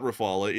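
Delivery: Rafale as ruh-FAH-luh; speaker's French-style pronunciation. Shown as a demonstration. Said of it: "trying to correct me".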